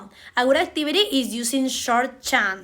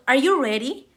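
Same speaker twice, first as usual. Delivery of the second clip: "Are you ready?" with the voice going up at the end; rising intonation; faster than usual. Shown as a demonstration. Teacher modelling question intonation, rising tune. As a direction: ask it as a yes or no question, rising. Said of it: "goes up because it is a yes or no question".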